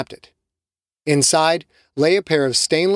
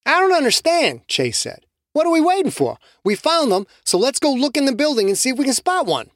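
much higher, impatient voice; eager Chase; 11 semitones higher than usual. Acted. Chase urging the group, higher eager voice. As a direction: push to go now.

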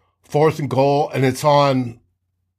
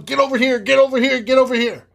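higher, hammed-up retold yell; mock yell; 9 semitones higher, faster than usual. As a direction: shout the teammates over, imitating the quarterback. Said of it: "So he starts yelling".

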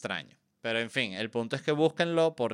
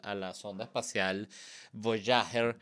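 ordinary talk, nothing marked

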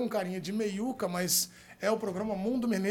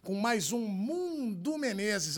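ringmaster. Pretend. Opening the show like a circus.

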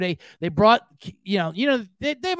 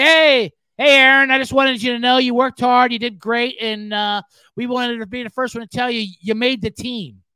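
louder, a bit higher, a hint of a sincere coach; mock earnest coach; 3 semitones higher, 4 dB louder than usual. Coach pretending to give Aaron Rodgers big news, lightly hammed. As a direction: deliver fake good news with hammed sincerity.

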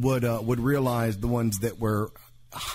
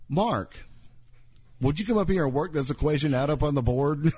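teacher calling on student; 4 semitones higher than usual. Retold or imitated. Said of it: "the non-nun would say".

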